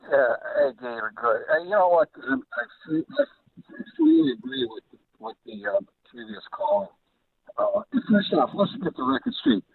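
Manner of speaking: faint, distant voice on a phone line; talking away from the phone mouthpiece; phone held away. Real, not acted. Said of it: "can you speak into the phone better?".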